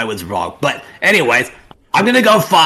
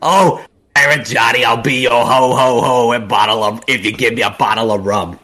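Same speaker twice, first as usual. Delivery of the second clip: swooning fan call; 2 semitones lower than usual. Retold or imitated. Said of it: "and I was like".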